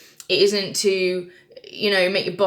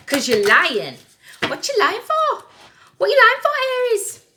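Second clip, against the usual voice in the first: high-pitched accusing outburst; mock-aggressive challenge; 6 dB louder than usual. Tarot reader calling out Aries for lying, mock-aggressive. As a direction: climb into a loud, high interrogation. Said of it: "I'm very aggressive today".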